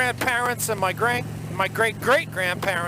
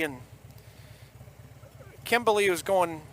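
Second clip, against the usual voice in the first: put-on thick Boston accent storytelling. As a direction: tell it like a Bostonian. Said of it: "in nothing but the Boston accent for ya".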